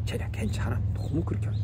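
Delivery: a hushed whisper aside. Retold or imitated. Father whispering to his wife at the table, hushed whisper. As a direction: whisper so the men can't hear.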